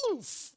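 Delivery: high, soft "oof" of impact; imitated grunt. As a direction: mimic the wind knocked out of him. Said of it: "And you hear him go".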